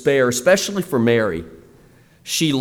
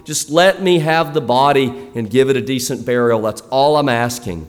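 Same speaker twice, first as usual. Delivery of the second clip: 1 pleading Mary, lightly voiced. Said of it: "And so she says".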